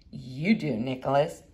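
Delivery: low and soft, like an echo in the head; hushed self-reminder; quiet inner voice. Retold or imitated. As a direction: say it to yourself, half aloud. Inner echo of teacher's words.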